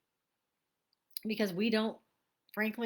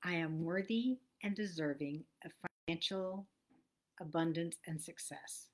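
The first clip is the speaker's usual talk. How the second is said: slow, measured affirmation, falling softer at the end; affirmation read slowly; 4 semitones lower, 4 dB quieter than usual. Shown as a demonstration. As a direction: recite it like a promise to yourself. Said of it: "remind you of today's affirmation".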